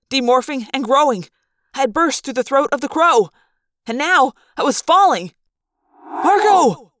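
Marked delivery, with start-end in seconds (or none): 6.0-6.9 loud shouted name; yell. Acted. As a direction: yell his name as he falls. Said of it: "Tobias yelled".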